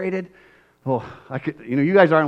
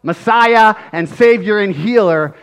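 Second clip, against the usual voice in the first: angry accusation; 6 semitones higher, 7 dB louder than usual. Retold or imitated. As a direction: denounce him as a fraud. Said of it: "I'd have gotten angry".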